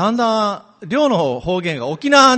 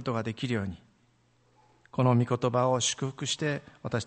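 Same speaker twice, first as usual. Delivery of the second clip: prayer. Real, not acted. Opening prayer before the sermon.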